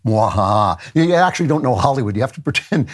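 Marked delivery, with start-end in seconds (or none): 0.1-0.8 mad scientist. Acted. Mock villain laugh after comment.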